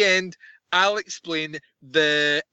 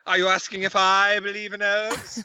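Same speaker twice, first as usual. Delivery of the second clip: imitating eccentric professor; 3 semitones higher than usual. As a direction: mimic an oddball film character, incredulous. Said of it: "See the way he's talking?".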